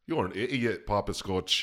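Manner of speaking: botched English accent sliding toward Irish; lilting, muddled fake British accent; attempted English accent. Shown as a demonstration. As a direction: try English, land nearer Irish. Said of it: "That was, that was Irish".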